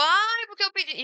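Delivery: mock a parent starting the same gripe; complaining parent. Parent back with the same complaint, nagging. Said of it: "uma pessoa reclamar a mesma coisa".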